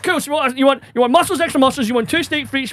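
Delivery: high, harried order read-back; strained retold politeness; barely contained exasperation. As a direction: recap the order while trying not to lose it. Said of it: "trying not to go fucking mental".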